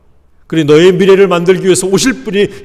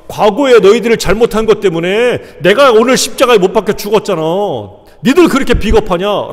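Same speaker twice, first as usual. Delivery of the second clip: mildly scolding, pitch a little raised; understated scolding of cowardly followers; mock reproach; 3 semitones higher than usual. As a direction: act out a hypothetical rebuke. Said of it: "라고 책망하지 않았어요".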